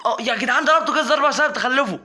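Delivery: high, loud words through laughter; laughing. Real, not acted. Gamer laughing to viewers about hitting his pet, laughing. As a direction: laugh it out at yourself.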